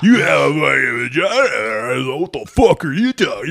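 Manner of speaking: laughing mock shout; put-on arguing voice, yelled through laughter; hammed-up argument. Arguer tells a stranger off, hammed-up shouting.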